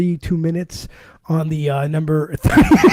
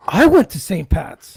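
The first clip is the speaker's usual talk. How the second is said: slow, amazed echo of I went to Saint Pat's; imitating Sean's gasped disbelief; mock gasping surprise; slower than usual. Mocking Sean's amazed echo of his school, slow.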